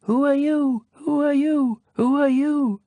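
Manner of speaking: high hollow echo, repeated. Acted. The echo repeats the prince's question, high and hollow. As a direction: let it ring back three times like an echo. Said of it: "the echo answered".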